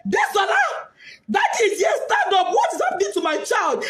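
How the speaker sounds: high crying shout; father crying out over his daughter's body; retold scream. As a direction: call the child's name in anguish. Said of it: "He screamed, shouted".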